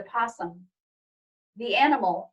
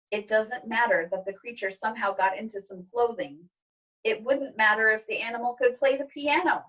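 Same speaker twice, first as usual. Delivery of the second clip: stern father. Acted. Father refusing the possum, a hint of stern. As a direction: lay down the rule calmly.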